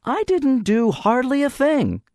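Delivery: forced easy tone. A narrator's reading. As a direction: act casual though tense. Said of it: "as easily as it was possible".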